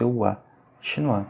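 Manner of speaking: "oua", then "Chinois" ending in "wa". Shown as a demonstration. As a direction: model the "wa" sound in "Chinois". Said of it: "La prononciation". (« oua », puis « Chinois » avec le son « oua »)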